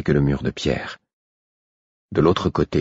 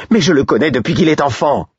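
véhémente et aiguë; indignée; 9 semitones higher, 5 dB louder than usual. Acted. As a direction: protester avec véhémence. Patience pleads with guard. (ton véhément, indigné)

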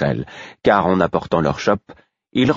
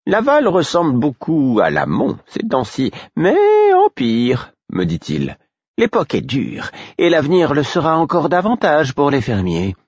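reassuring father; 8 semitones higher than usual. A narrator's reading. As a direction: soothe the frightened boy.

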